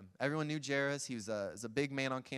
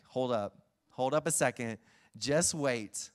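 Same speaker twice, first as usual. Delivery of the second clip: hold on, excited; 5 dB louder, slower than usual. Retold or imitated. Jesus halting the crowd.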